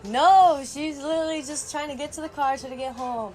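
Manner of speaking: loud, high no, then insistent explaining; re-enacted indignant correction; exasperated protest. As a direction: push back at a clueless operator. Retold protest to operator.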